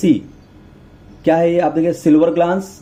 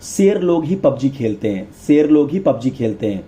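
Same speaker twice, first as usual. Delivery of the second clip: measured mnemonic. Shown as a demonstration. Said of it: "इसको ऐसे बोलो".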